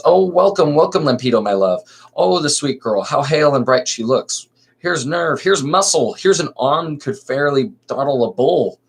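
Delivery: bright, lifted greeting to a friend; gushing welcome. Acted. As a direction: greet her like a dear old friend. Lysistrata greets Lampeto warmly.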